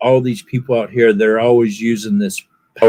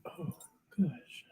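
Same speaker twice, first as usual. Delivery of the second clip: 1 whispered gosh; 6 semitones higher, 24 dB quieter than usual. Real, not acted. Sighs at being welcomed.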